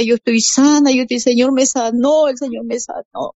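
más agudo, exclamando que está sana; grito alegre recordado. Retold or imitated. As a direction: anuncia su curación a la familia. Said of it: "yo gritaba y decía". (exclamación alegre y aguda, sin gritar de verdad)

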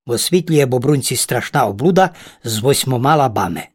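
usual speaking voice

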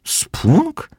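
very high, rising question; baffled, soaring pitch; puzzled echo. A narrator's reading. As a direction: squeak the word back as a question. Puzzled friend repeats the new word.

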